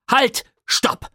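lautes, hohes Halt; energisch unterbrechen. A narrator's reading. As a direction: bremst die eigene Erzählung abrupt. Erzähler unterbricht sich selbst. (Erzähler ruft laut dazwischen)

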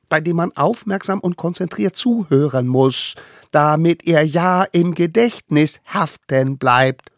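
high, eager little voice; tiny eager hunter. Acted. Little hunter brings food to the mammoth, high and eager. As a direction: play the smallest one, proud and keen. Allerkleinste solemn.

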